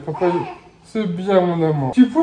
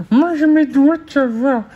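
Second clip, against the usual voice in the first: playful; 5 semitones higher, 3 dB louder than usual. Real, not acted. Parent playing finger game with baby, teasing. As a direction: tease her playfully.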